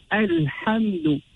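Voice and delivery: Alhamdu begun on a clear a; voiced opening hamza. Shown as a demonstration. Teacher showing how to start, Alhamdu with clear first vowel. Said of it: "Hamzatul Wasl, when starting here".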